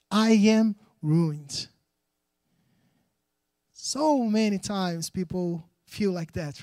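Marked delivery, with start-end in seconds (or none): 0.1-1.7 lament. Acted. Preacher reading Isaiah's lament.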